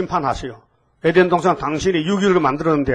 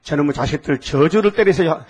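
mock vengeful prayer; 2 semitones lower, 4 dB louder than usual. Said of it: "했어요?".

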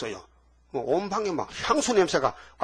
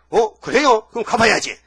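놀란 마리아; 5 semitones higher, 6 dB louder than usual. Acted. 마리아가 놀라 반응함.

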